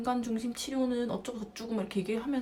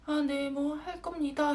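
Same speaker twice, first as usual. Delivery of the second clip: slow, higher, drawn-out stalling; awkward retold answer; 4 semitones higher, slower than usual. Student answering professors as time runs out, awkward. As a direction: drag out a vague answer, mimicking a cornered student.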